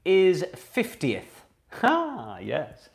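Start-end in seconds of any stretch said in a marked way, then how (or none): 0.5-1.4 slow dictation. Shown as a demonstration. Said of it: "our third spelling bee word".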